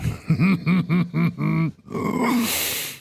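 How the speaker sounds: rising chuckle at his own joke; real amused chuckle; amused laugh. Real, not acted.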